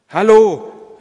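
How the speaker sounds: high, loud call of greeting. A narrator's reading. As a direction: call out to a passer-by. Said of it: "rief Vater Martin".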